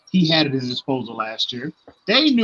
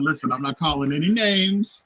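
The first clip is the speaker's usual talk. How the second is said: usual speaking voice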